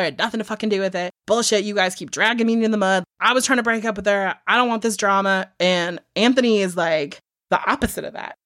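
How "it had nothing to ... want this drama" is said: mildly heated retold rant; imitated exasperated protest; pissed off. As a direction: act out an indignant suspect popping off. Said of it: "He gets fucking pissed".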